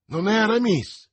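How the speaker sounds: loud, high cry of surprise; exclaimed. A narrator's reading. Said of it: "esclamò".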